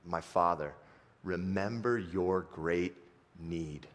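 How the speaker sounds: soft, coaxing servant appeal; gentle pleading. Retold or imitated. Servant softly coaxes his angry master to try. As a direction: soften and plead with your master. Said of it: "his servant comes up to him and says".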